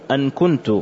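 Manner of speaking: "أن كنت" said "an kuntu"; fatha on the hamza. Shown as a demonstration. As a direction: open the hamza of أن to an "a". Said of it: "بفتح الهمزة".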